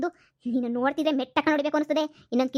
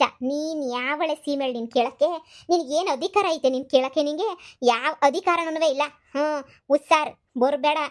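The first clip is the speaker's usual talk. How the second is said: slow, disdainful put-down; scornful. Acted. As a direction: spell it out with contempt. Mother dismisses rival slowly.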